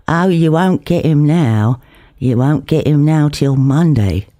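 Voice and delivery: put-on a London roadworker's gloat, East End accent with a sad edge; sad triumphant East End. Doorman announcing the builder's gone, East End accent, sadly triumphant. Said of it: "a sad triumph in the East End voice".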